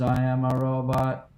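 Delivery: slow even robot line. Retold or imitated. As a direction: drone it like a robot. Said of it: "He goes".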